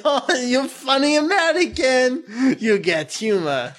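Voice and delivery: mock Japanese accent. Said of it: "And he'll say".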